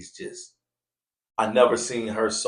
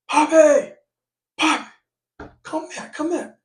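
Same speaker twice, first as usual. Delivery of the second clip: high call across the street; mild calling out; 5 dB louder, slower than usual. Retold or imitated. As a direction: yell to him from down the block. Calling out from afar.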